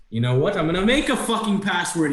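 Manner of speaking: high-voiced indignant creature; bickering redcap. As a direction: declare it like a peeved little gnome. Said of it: "begin to yell at each other".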